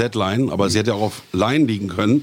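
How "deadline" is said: "Deadline" with the stress on Dead. Shown as a demonstration. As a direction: lean on the first part, Dead, in "Deadline". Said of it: "die Betonung liegt auf Dead".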